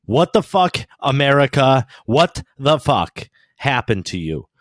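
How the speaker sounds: real exasperated outburst, starting high and loud; a little mad. Real, not acted. Fed-up ranter addressing America, real angry outburst. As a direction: burst out angrily, then ease off. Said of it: "I get a little mad".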